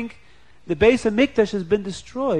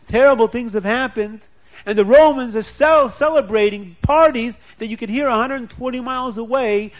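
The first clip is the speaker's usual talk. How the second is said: raised, higher, louder grieving protest; anguished lament; 5 semitones higher, 4 dB louder than usual. Acted. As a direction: cry out the loss to him, pained and loud. Rabbis' anguished reply, voiced loud.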